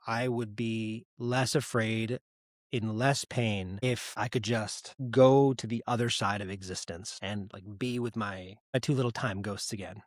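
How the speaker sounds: slow, soft, holding back tears; choked up. Real, not acted. Guest recalling his lost pregnancies, choked up. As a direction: let the words catch as grief rises. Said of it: "I'm getting choked up".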